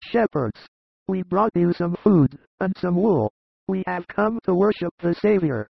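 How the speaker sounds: high, eager greeting; humble shepherds. A narrator's reading. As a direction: announce the gifts in a lifted voice. Narrator voices shepherds.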